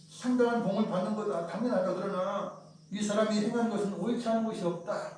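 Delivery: rebuking. Retold or imitated. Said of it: "꾸짖으면서 말을 하죠".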